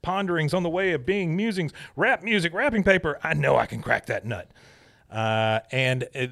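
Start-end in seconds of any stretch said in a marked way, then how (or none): 0.0-4.5 frantic Peggy. Retold or imitated. Peggy at her printer listing what she could lose, mildly frantic. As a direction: rattle off the list in rising fuss. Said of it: "She goes".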